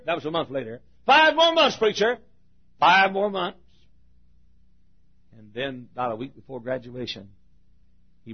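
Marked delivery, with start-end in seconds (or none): 1.0-3.6 put-on higher, eager young man, ticking off months; eager countdown. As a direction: say it like the finish line is close. Student counting down again.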